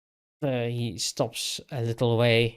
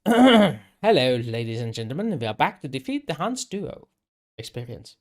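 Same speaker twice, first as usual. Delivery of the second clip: a mock show-opening welcome; show host intro; 4 dB louder than usual. Game master welcoming listeners back to the show, hammed-up host greeting.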